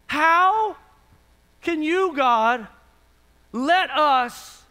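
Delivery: mock indignant demand, slow and halting; acted-out indignation, word by word. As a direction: confront God, pausing between words. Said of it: "They were indignant".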